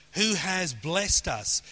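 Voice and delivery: slow, deliberate weight on "has"; "has" drawn out and emphasised; stress on has. Shown as a demonstration. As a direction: lean on "has" to mark it as already done. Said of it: "Notice it's past tense".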